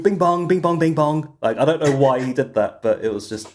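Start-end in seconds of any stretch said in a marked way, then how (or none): 0.0-1.4 higher, singsong nonsense syllables; Donald Trump imitation. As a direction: imitate a politician's random patter. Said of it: "he randomly just starts going".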